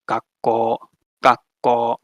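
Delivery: "gakko" with the K held before release and a long final O, gak-koo; long consonant and vowel. Shown as a demonstration. Teacher to class, showing Japanese gemination: held K, long O. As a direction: pause on the K of "gakko", stretch the O. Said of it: "write it with that sort of two triangles".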